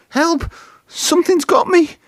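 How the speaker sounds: high, panicked shout for help; terrified engine yelling. A narrator's reading. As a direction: scream it out in terror. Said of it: "shouted Thomas".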